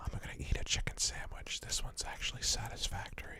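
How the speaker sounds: very quiet, breathy, barely voiced whisper. Imagining DSP making an ASMR video, whispering as DSP. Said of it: "He just whispers".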